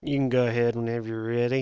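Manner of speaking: contrasting live worker. Retold or imitated. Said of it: "somebody with a totally different".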